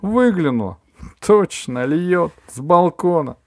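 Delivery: high, loud breathless report; excited gossip. A narrator's reading. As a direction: tell it like a thrilling raid. Aunt Valya excited report.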